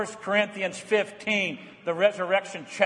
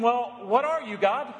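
puzzled asker; 5 semitones higher than usual. Retold or imitated. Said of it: "You're left asking".

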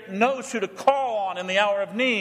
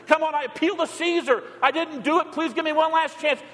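pleading appeal; 7 semitones higher than usual. Pretend. Imagined appeal to Caesar.

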